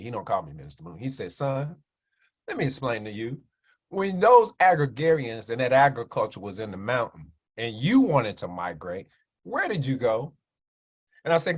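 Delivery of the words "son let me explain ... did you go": voice of God. Retold or imitated. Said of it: "I'm being a little more animated".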